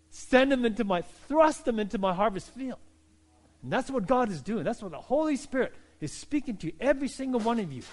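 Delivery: a touch of dramatic emphasis on thrust and God. Acted. Preacher voicing God's command to the church, mildly dramatic. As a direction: lean on the words like a stage line. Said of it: "that's dramatic emphasis".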